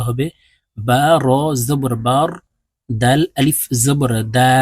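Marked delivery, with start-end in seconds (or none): 2.9-4.5 slow spelling out. Shown as a demonstration. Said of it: "দেখুন".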